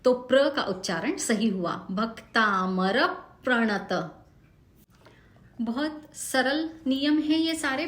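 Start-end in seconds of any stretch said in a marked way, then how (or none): 1.9-4.1 slow भक्तामर प्रणत with weight on भ and र; stress before clusters. Shown as a demonstration. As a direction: push the short vowel before each cluster. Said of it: "उस पे जोर लगाया".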